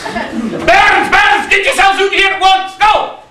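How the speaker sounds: high, brisk calling-out; rallying pantomime call; summoning call. Shown as a demonstration. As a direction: lead the crowd in a shouted chant. Demonstrates the summoning shout again.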